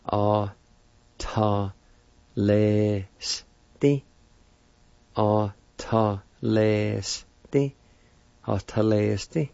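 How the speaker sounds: Atalesti repeated plainly, rising at the end; careful pronunciation. Shown as a demonstration. Teacher repeating Atalesti for the class, clear and plain. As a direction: model the word Atalesti for students. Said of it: "It's pronounced like this".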